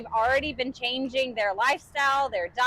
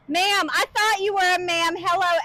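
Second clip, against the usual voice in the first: higher, louder, delighted mock-surprise; playful surprise; 6 semitones higher, 4 dB louder than usual. Real, not acted. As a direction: tease the viewer, delighted. Greeting a viewer, playful surprise.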